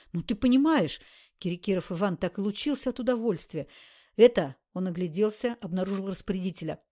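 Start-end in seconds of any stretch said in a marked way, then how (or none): 0.1-1.0 самодовольный восторг. Acted. Довольный бандит. 4.2-4.6 громкий окрик. Acted. Окрик распорядителю.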